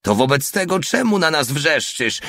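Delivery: high, mildly booming retort; thundering voice. A narrator's reading. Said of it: "odpowiedział Porta swoim grzmiącym głosem". (podniesiony, donośny głos)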